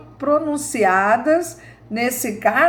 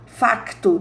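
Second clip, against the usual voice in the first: "Facto" in a light European Portuguese way, k clearly sounded; Portuguese pronunciation. Retold or imitated. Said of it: "Lá em Portugal, eles falam muito assim". ("Facto" com sotaque de Portugal)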